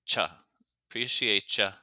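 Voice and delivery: "Appreciate ya" as "preciate-cha"; casual clipped-start "Appreciate ya" ending in "cha"; reduced to "cha". Shown as a demonstration. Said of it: "final sound is often reduced to".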